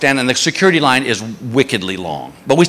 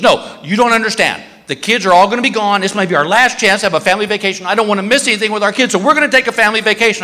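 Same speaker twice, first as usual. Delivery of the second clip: rushed, higher-pitched wife pleading; wife insisting, higher; 6 semitones higher, faster than usual. Retold or imitated. Wife pushing the husband to take a family vacation, pitched up and rushing. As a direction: speed up, voice going higher as she insists. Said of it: "she goes".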